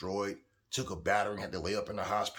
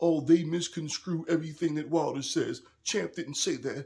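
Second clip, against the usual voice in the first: high, loud, scornful voice mocking worshipful fans; 7 semitones higher, 6 dB louder than usual. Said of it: "talking like this".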